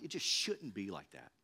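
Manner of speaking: it just shouldn't be like that, said low and soft; a soft lament; quiet, resigned statement. Real, not acted. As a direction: murmur it to yourself. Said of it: "repeats with emphasis".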